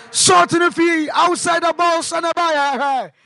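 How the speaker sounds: quick, running match commentary; live play-by-play. Real, not acted. Radio commentator describing the shot to listeners, live play-by-play. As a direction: keep the listeners on the ball.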